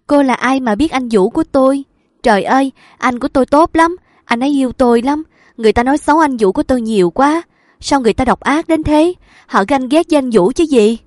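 high, loud, rushing agitated rant; distraught raving. A narrator's reading. Sick woman defending her lover to the nurse, high agitated raving. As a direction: pour it out in a feverish rush. Distraught patient raves about Vũ.

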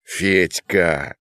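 ordinary delivery

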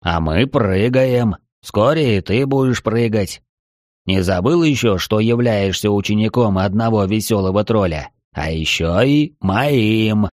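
slow sly whisper in the ear; luring spirit whisper. Acted. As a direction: lure him in, slow and sly. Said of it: "Вкрадчивый шёпот лица".

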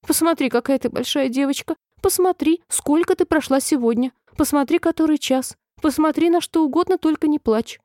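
высоким голосом уговаривай не плакать; настойчивые высокие уговоры королевы; отчаянная мольба. A narrator's reading. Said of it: "заламывая в отчаянии руки". (в отчаянии, умоляя)

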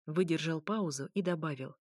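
ordinary delivery

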